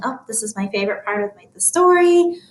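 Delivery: chatty thinking-aloud voice; quick musing aside while reading. Shown as a demonstration. Teacher models a reader's thoughts, thinking voice. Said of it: "So that's my thinking voice".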